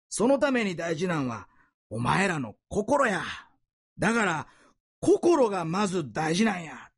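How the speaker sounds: lightly voiced Kansai teacher driving his point home; a hint of the earnest Osaka band director; Osaka dialect teacher. Preacher retelling the teacher's lesson to students, mild Osaka dialect. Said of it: "その顧問の先生がこう教えてるんですね".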